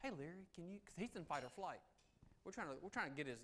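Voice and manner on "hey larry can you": gentle soft tone, higher and quieter. Showing how a negotiator talks to a man on a ledge: soft voice. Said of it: "notice my voice, soft".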